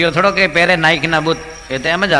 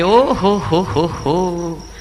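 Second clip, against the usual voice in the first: deaf man's loud reply; 3 semitones higher, 4 dB louder, slower than usual. Retold or imitated. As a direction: shout it back, dragging the oho. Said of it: "બેરો જોરથી બોલે". (બહેરા માણસનો ઊંચો, મોટો જવાબ)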